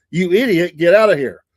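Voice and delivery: mock scolding. Patrolman teasing his speeding friend.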